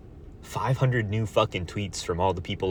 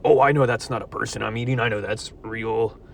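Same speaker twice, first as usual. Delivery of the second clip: mocking smug voice. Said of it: "You're gonna know".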